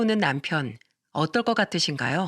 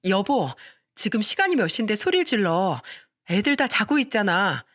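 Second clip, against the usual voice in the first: scolding. Acted. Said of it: "다그치듯 말했어요".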